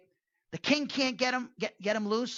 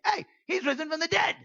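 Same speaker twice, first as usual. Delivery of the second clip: imitating apostles; 8 semitones higher, 4 dB louder than usual. Apostles voiced claiming resurrection.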